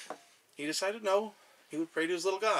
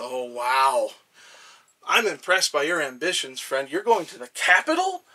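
awed little god; 4 semitones higher, 7 dB louder than usual. Acted. God awed by capital ambitions.

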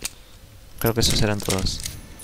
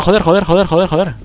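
cursing under breath; 7 semitones higher, 5 dB louder than usual. Real, not acted. Frustrated after the fight.

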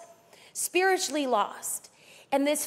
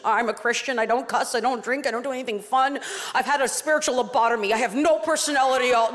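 mock pious Christian; 3 semitones lower, 3 dB louder, faster than usual. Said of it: "It's not just about proclamation".

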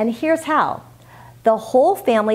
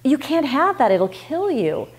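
fearful; 5 semitones higher than usual. Shown as a demonstration. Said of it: "with fear in your voice".

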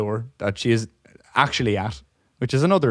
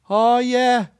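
much higher, sheepish mock admission; sheepish customer; 5 dB louder than usual. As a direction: admit it like a caught customer. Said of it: "customer answer".

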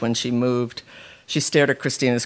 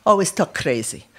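higher, lightly voiced complaining mother; nagging mother; 5 semitones higher than usual. A narrator's reading. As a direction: grumble at the crazy talk. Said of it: "like a ghost".

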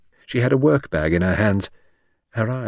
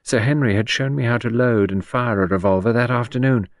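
a touch higher, naive confiding character; lightly voiced Gerda; 4 semitones higher than usual. Gerda explains her plan to Henrietta, lightly voiced confiding tone.

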